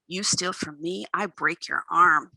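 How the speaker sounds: lightly voiced tough guy warning his thief; low gravelly threat. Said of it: "His voice is low and gravelly".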